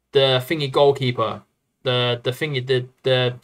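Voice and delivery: tongue-tied, repeating words; can't get the words out; stumbling over words. Real, not acted. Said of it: "I can't get my words out".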